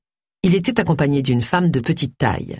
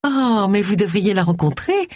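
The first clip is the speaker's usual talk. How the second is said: sugary, higher-pitched coaxing; honeyed; 4 semitones higher than usual. Acted. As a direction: coax with syrupy sweetness. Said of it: "dit Gwen d'une voix mielleuse".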